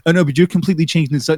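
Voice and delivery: fast, cut-off mimicry of Vegan Gains' accent; Vegan Gains accent. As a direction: hurry through it in his accent, then break off. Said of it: "I love that accent you're putting on".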